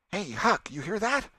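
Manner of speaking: high, loud thrilled shout; excited call. Acted. Tom calls to Huck after striking wood, high and excited. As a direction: call him over, thrilled.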